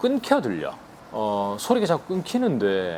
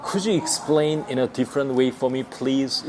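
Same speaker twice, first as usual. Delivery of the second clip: very slow, every word spaced; teacher modelling slowly; slow demo; much slower than usual. Shown as a demonstration. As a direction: spell it out for learners. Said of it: "한 번 더".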